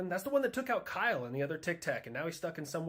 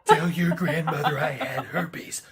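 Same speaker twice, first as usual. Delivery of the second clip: loud, slow hammed-up catchphrase; practicing awful catchphrases; 9 dB louder, slower than usual. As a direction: belt it out slowly like a cheesy one-liner. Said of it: "awful catchphrases".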